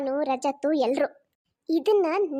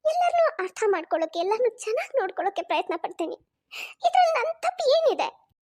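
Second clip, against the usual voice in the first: tearful protest; 3 semitones higher than usual. Acted. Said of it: "ಅಳ್ಬೇಡಮ್ಮ".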